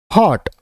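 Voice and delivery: teacher sounds out हॉट for pupils to copy; model pronunciation. Shown as a demonstration. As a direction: say हॉट clearly as a model word for the class. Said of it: "मैं इनका उच्चारण यानी pronunciation किस तरह से".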